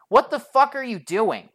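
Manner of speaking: high-pitched blunt demand. Retold or imitated. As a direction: confront him in exasperation. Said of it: "bluntly ask him".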